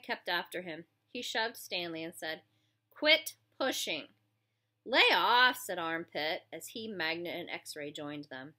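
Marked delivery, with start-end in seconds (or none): 2.9-4.1 slow high sneer; mocking taunt. Bully taunts. 4.8-5.6 louder, sharp order; loud command. Acted. Armpit intervenes.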